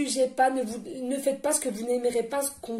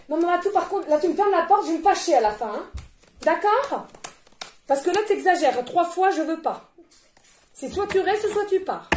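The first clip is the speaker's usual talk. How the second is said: higher, louder scolding of a pet; firm pet scolding, pitched up; scolding the cat; 5 semitones higher, 3 dB louder than usual. Real, not acted. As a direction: tell the cat off, getting fed up.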